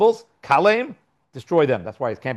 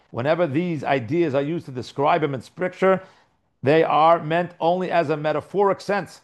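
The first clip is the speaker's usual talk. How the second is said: higher, measured formal read-out; reading aloud; 3 semitones higher than usual. Acted. Teacher reading a commentary note to his class, formal read-out. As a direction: read it out deliberately, word by word.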